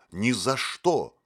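loud, slow, drawn-out refusal; wild shout. A narrator's reading. Motylyok jumps up refusing the condition, loud wild shout. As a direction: shout it wildly, refusing outright. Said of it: "дико закричал Мотылёк".

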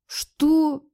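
high indignant cry; sharp indignant disbelief; indignant what. A narrator's reading. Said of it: "возмутилась я".

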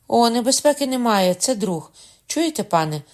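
urgent excitement. A narrator's reading. Margaret urgently tells the wounded man it is a friend. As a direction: rush to reassure him.

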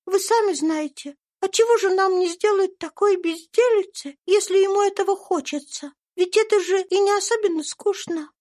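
put-on high, bright child's voice; little girl Eva. A narrator's reading. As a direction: speak as a sweet little girl. (тонкий детский голосок)

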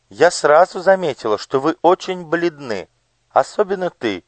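high, bright-voiced curious lady; noble lady. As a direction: voice the gracious lady on horseback. (знатная дама, высоким голосом)

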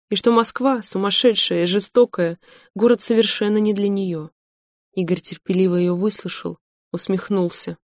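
plain reading voice

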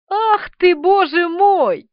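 high, slow, exclaimed with glee; delighted exclamation. A narrator's reading. Thug exclaiming to Kalashnikov, high and delighted. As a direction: burst out in mock astonishment. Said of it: "воскликнул тип".

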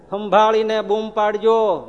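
સંભાળીને બૂમ પાડજો said slowly and loudly as a threat; slow warning. Shown as a demonstration.

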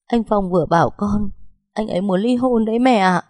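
giọng cao vút, mếu máo; kể lể trong nước mắt; vừa khóc vừa kể. Acted. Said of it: "vừa khóc vừa kể tội anh". (con dâu mếu máo mách mẹ chồng)

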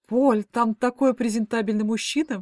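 slow, gushing delight; rapturous. Acted. Mother gushing to her daughter about the suitor, slow and enthusiastic. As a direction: swoon over him as you say it. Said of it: "восторженно поднесла она руки".

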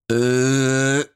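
long, droning "uhhh" of shock; stammering wail. A narrator's reading. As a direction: drag out one stunned, wordless moan. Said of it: "завыл Иван Лукич".

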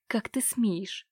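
slow, hushed whisper of outrage; shocked whisper. Acted. Uncle, stunned by his niece's refusal, in a slow outraged whisper. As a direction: breathe the words out in disbelief.

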